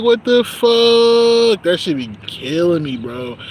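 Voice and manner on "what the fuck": high, loud, drawn-out disbelief; shocked what the fuck. Retold or imitated. Coworker reacting to a customer, drawn-out shocked disbelief. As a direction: stretch it out, stunned and appalled.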